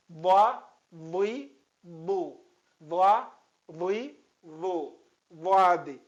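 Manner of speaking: Dha loud, then Dui, Du, ending on Dad; Arabic syllable drill. Shown as a demonstration. Teacher drilling Dad syllables for students. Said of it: "preste atenção à pronúncia do professor".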